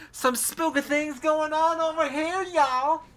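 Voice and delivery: haunt them from inside the smoke; spooky voice. Retold or imitated. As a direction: player teasing enemies in a high, ghostly voice. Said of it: "be like".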